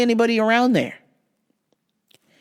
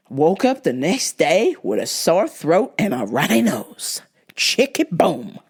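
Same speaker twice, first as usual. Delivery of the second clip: slow unvoiced whisper; 2 semitones lower, slower than usual. Real, not acted. Host telling viewers she got sick, whisper. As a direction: breathe it out as a secret.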